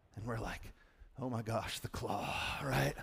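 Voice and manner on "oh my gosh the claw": scared, spooked, freaked-out voice. Retelling how the fourth graders reacted to the story: imitating freaked-out kids. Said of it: "We're freaked out".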